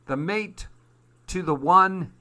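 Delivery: high, loud excited cry; an old man thrilled at finding a match. Acted. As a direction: jump up with delight. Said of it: "he cried".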